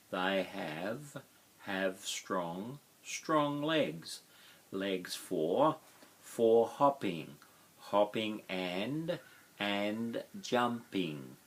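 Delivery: slow overlapping word pairs with a lift on each; chunked phrase by phrase. Shown as a demonstration. Teacher to class, chunking the sentence pair by pair, slowly. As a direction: model the words in small linked chunks for learners. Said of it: "teacher chunking phrase by phrase".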